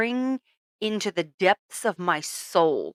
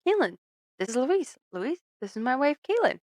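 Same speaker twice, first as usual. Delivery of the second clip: mock introduction; 6 semitones higher than usual. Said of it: "And then he goes".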